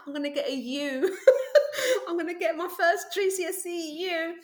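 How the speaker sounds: high, laughing panic with a near-sob; panicked laughing. Retold or imitated. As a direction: laugh out the horror of a failing grade. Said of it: "and I was like".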